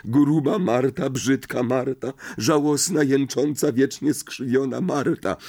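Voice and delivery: acted tearful grievance; whiny self-pity. A narrator's reading. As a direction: whine on the edge of sobbing. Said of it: "Jęcząca Marta zaniosła się szlochem".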